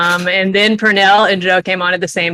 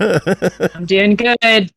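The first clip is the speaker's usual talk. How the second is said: slow drawn-out; much slower than usual. Pretend. Drawn-out mock answer.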